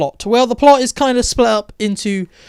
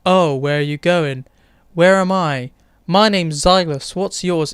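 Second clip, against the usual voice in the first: lightly voiced dull character, little range; a mild monotone send-up of a bland actor; mocking Xylus; slower than usual. Reviewer mocking Xylus's flat line delivery, mild monotone imitation. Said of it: "this is what Silas sounds like".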